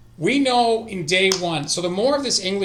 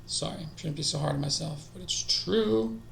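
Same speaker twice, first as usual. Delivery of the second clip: ordinary delivery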